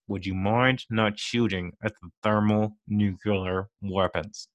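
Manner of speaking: slow, unbothered polite request; mock calm villain. Travolta's villain asking a shooter to stop, slow calm. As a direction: ask it sweetly, like a minor nuisance. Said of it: "he just calmly says".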